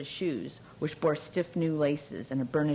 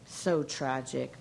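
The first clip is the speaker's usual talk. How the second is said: sighing; 2 semitones lower, much slower than usual. Acted. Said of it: "she sighed".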